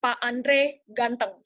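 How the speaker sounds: slow, even statement, GANTENG falling at the end; measured declarative, no lift on "ganteng". Shown as a demonstration. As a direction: state it slowly and plainly, letting "ganteng" drop. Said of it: "Ada yang maknanya tuh pernyataan".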